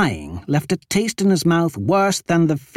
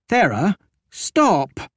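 implored; 5 semitones higher, slower than usual. Acted. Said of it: "Keita implored".

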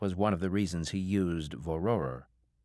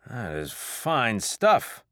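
slow, louder, savouring praise; impressed drinker; 4 semitones higher, 5 dB louder, much slower than usual. Acted. Mangy drinker praising the shot, slowly impressed. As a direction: drag it out in admiration of the drink.

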